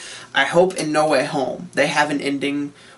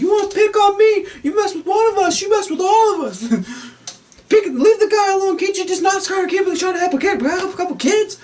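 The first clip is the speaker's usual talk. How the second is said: much higher shouted New Yorker; New York citizen. Retold or imitated. Bridge crowd defending Spider-Man, high shouted New Yorker. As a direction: yell it at the villain like an angry local. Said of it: "It's like".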